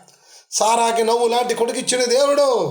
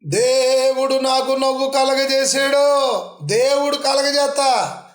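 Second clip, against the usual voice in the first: Sarah's joyful testimony; 4 semitones higher, slower than usual. Retold or imitated. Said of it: "సారమ్మందట".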